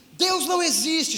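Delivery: a touch of a sob, imitating the girl; retold crying. (imitando choro leve, mais agudo)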